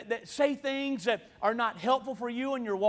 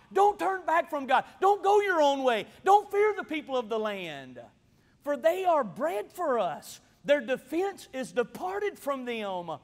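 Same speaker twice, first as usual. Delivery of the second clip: forceful exhortation; 2 semitones higher, 3 dB louder than usual. Acted. Joshua and Caleb exhort the people.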